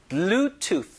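Bluetooth slowly modelled, ending on tongue-tip th; careful English th closing Bluetooth; th sound demo. Shown as a demonstration. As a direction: finish Bluetooth with air stopped at the teeth. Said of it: "공기를 막아야 돼요".

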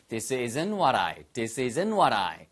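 very slow, each word laid out; this isn't what I, said slowly for copying; slow model phrase. Shown as a demonstration. Teacher drilling the phrase slowly for the class.

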